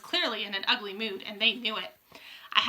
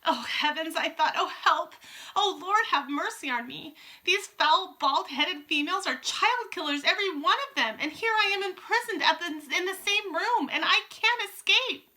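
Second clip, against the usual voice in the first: panicked whisper-thoughts; 7 semitones higher than usual. A narrator's reading. Terrified boy trapped among witches.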